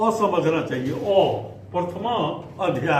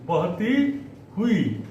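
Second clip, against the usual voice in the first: slow syllable drill; slower than usual. Shown as a demonstration. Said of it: "slow repeat for class".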